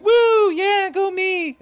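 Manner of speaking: very high, loud mock cheering; celebrating girlfriend. Girlfriend celebrates in the ring, hammed-up cheering. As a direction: whoop it up in a piercing falsetto. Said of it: "And she's like".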